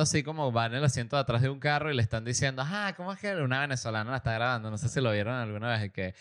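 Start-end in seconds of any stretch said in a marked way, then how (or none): 2.6-3.3 higher, softer mock Venezuelan voice; teasing Venezuelan-accent impression, softly raised in pitch; imitated Venezuelan accent. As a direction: mimic a Venezuelan girl, pitched up. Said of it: "imita el acento idéntico".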